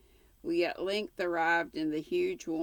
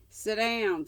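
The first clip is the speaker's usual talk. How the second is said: louder, higher curt order; gruff young man; 5 semitones higher, 5 dB louder than usual. Acted. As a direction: bark it at the guest. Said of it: "said the young man gruffly".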